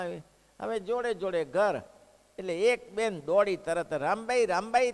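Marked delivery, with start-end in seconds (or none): 3.9-4.9 a neighbour calling out a name; called out to be heard next door. Retold or imitated. A neighbour woman calls out to Rambai, a mock call.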